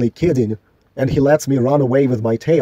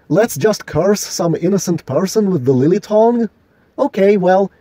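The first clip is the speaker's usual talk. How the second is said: higher-pitched sarcastic comeback; mock retort; 5 semitones higher than usual. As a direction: throw their idea back at them, pitched up. Acts out the mocking retort.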